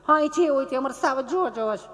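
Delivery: high, over-careful city lady voice; prissy educated lady. Retold or imitated. Comedian mocking a snooty tourist, high and prim. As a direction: mince every syllable like a fussy schooled woman. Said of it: "ચીપી ચીપીને બોલે".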